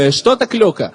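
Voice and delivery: imitated Russian speech; mock Russian accent. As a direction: ask it in made-up Russian. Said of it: "אני אוהב לדבר עם אנשים ברוסית".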